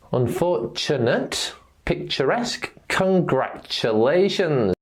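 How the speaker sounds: "Unfortunate", "picturesque", "congratulations" with T as CH; T plus schwa. Shown as a demonstration. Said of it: "T followed by the schwa sound".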